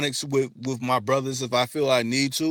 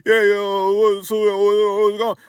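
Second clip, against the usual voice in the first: mock stereotyped slang; 7 semitones higher, 8 dB louder than usual. Mocking what people expect him to sound like. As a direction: ham up the voice they expect from him. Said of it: "I don't talk like that".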